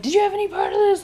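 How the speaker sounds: high, fast mock yell; retold yelling. Father accusing his daughter, imitated yelling. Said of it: "he's yelling at her".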